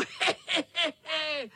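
high, gleeful cackling laugh; high mischievous cat laugh; cat cackle. A narrator's reading. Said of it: "Chechtal se kocour".

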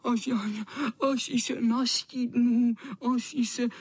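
vysoko a žalostně; fňukat nad nachlazením; kňučení. Acted. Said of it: "a kňučel". (hubený kocour kňučí)

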